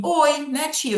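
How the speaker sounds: put-on high kid voice, pleased with itself; child's voice. Child greeting the teacher, high childlike voice. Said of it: "quando ela fala assim".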